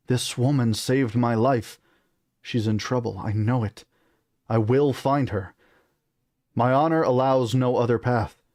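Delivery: put-on resolute British-accented prince. Son pleads for the woman who saved him, British accent. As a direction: vow it in a measured British accent. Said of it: "on the British accent".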